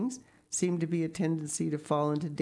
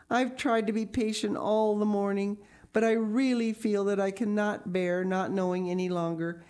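put-on higher-pitched urgent child's plea; imploring; 7 semitones higher, 3 dB louder than usual. A narrator's reading. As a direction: plead to be told, drawing out the begging words. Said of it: "said in an imploring voice".

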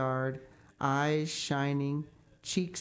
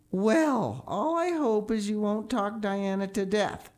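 put-on stern older woman, higher and louder; Marilla's voice; 6 semitones higher, 3 dB louder than usual. A narrator's reading. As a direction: scold like a strict guardian. Marilla scolding Anne.

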